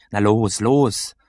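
loud, impatient call at the door; almost shouting. A narrator's reading. Freezing boy at the door calling out loud. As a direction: urge them on, nearly shouting. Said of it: "sagte ich fast laut".

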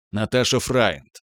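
ordinary delivery, nothing marked

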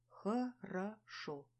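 slow, each syllable spelled out. A narrator's reading. Heroine to her friend, syllable by syllable. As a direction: drag the word out syllable by syllable. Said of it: "по слогам ответила я".

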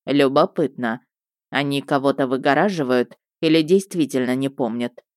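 low thoughtful investigator; lightly voiced Murdock. Murdock's voice in story.

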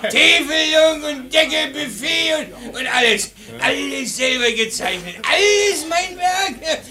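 boastful bragging. Acted. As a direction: brag about your own work. Boasting drunk guest.

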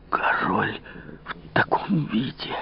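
медленный беззвучный шёпот; прошепчи, не веря глазам; потрясённый шёпот. Acted. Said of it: "прошептал королевский министр". (министр потрясённо шепчет при виде короля)

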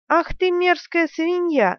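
high, slow furious insult; angry shout. A narrator's reading. Kahlan shouting at the general who struck her. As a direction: spit it out in outrage. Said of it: "закричала она".

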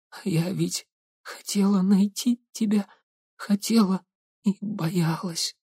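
weak gurgling whisper, dying. Acted. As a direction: gasp it out through blood, gurgling. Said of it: "Булькающим голосом".

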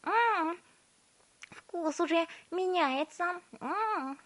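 very high, slow exclaiming; excited girl. A narrator's reading. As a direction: cry out with mouth full. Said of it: "закричала Виолетта".

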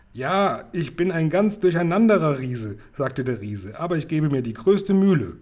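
a jolly confused giant rambling on; muddled giant. Acted. Giant explaining his muddle to Sophiechen, loud and eager.

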